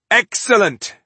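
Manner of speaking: loud, high, delighted cheer. A narrator's reading. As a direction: cheer it out in triumph. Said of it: "cheered Balindar".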